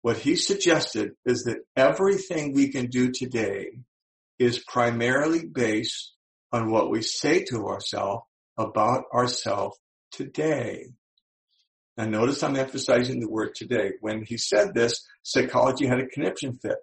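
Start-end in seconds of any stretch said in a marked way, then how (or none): 0.0-10.9 slow, deliberate teaching delivery; measured and unhurried, phrase by phrase; really slowly. Shown as a demonstration. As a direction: spell it out slowly so they get it. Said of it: "I'll say this really slowly".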